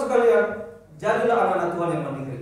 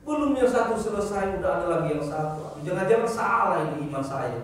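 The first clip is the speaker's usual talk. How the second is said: whiny complaining believer. Retold or imitated.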